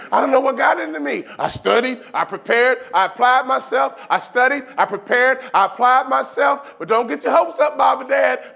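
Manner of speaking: high, loud, frantic protesting; nervous bad liar. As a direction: insist to your parents you didn't cheat. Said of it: "they act like this".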